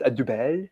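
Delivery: "double" as doo-BELL, rising at the end; questioned pronunciation. Shown as a demonstration. Brewer asking host about the Belgian pronunciation, "double" as doo-BELL. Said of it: "Is that how you pronounce it".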